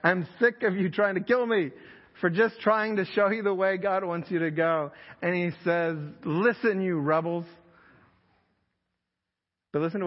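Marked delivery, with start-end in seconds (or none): 0.0-4.9 angry Moses. Retold or imitated. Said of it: "He's like". 6.2-7.5 mildly angry Moses. Retold or imitated. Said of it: "But Moses is mad".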